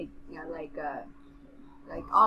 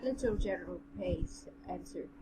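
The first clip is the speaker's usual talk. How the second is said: even, measured story reading; story narration; 8 dB quieter than usual. A narrator's reading. Reading the general's tale to a friend, measured narration. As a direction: read it aloud in an understated narrator's voice.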